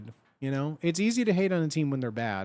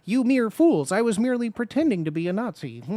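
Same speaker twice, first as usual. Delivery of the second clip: higher, mock-grand gloating voice, loud on the insult; mock villain; 6 semitones higher, 5 dB louder than usual. Streamer mocking a troll's excuse with a higher, hammy villain gloat. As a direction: play a hammy cartoon villain sneering at fools. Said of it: "you can't just be like".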